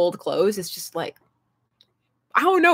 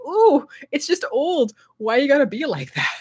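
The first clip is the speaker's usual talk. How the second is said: mock offended; 5 semitones higher than usual. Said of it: "And I was like".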